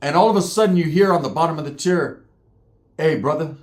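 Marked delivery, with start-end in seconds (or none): 3.0-3.6 imitating a big man's mellow call. Big Uso calls up from the bottom tier, mellow. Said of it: "Hella, hella mellow".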